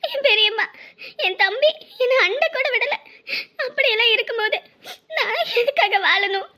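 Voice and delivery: weeping voice, slowing toward the end; tearful. Acted. Woman telling her friend she was abandoned, still tearful. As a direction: speak through tears, worn out with grief.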